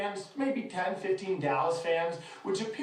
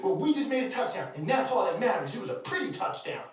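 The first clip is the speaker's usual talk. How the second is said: lightly mimicked defensive fan, higher pitched; woman fan; 5 semitones higher than usual. Fan defending her team's touchdown, mock defensive. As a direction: imitate her insisting in a raised pitch. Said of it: "She goes".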